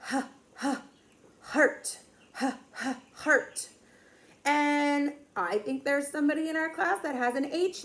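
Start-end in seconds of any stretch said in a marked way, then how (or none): 0.1-3.7 short breathed "h" puffs, then "heart"; letter sound demo. Shown as a demonstration. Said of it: "that H makes the".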